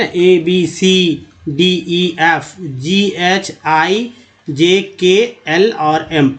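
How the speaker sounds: slow letter names ए बी सी डी one by one; slow classroom letter recital; slow alphabet recital. Shown as a demonstration. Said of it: "ऐसे ही बोलते हैं ना".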